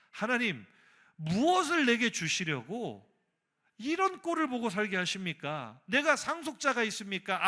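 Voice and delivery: high-pitched, heated demands; throwing a fit. Acted. Preacher as Abraham blaming God for having no heir, angry. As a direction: take God to task in an acted outburst. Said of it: "꼬라지 부린다니까요".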